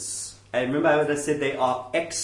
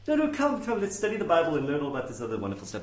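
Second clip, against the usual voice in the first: lightly voiced coaxing minister; liberal minister; faster than usual. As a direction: brush it off and coax the visitor along. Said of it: "This is what you'll get from one of those guys".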